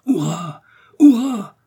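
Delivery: cheer, topping the first shout with the second; triumphant cheer. Acted. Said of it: "s'écria-t-il". (cri de triomphe qui monte)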